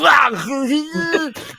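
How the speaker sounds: sudden high, loud pained shout; mock agony as the arm comes off; Viking losing his arm, screaming; arm-lopped scream. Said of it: "having a blade lop your own arm off".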